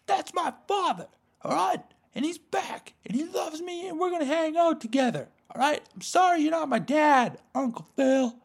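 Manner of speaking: very high, loud squealing teen impression; Will. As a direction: protest in an exaggerated high mock voice. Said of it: "And Will's like".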